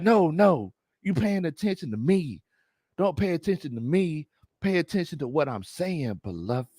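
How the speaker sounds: a touch of solemn guru insistence; Big Low Conspiracy. Acted. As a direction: patiently correct them like a self-styled sage. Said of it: "do my best Big Low Conspiracy im".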